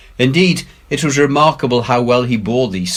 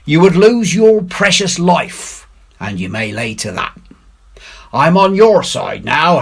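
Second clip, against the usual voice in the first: Silver's pirate voice; 7 semitones higher, 4 dB louder than usual. Acted. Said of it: "quoth Silver".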